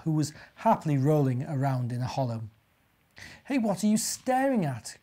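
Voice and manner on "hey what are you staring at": high-pitched, irritated challenge; irritable grunt. A narrator's reading. Wild boar challenges a staring bear, irritably. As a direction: challenge him testily, pitched up. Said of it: "grunted Wally irritably".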